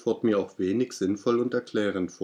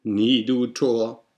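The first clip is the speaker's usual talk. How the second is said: slow, louder croaking raven voice; raven's croak; 5 dB louder, slower than usual. Acted. Raven answers the angry narrator, croaking slowly. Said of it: "Sprach der Rabe".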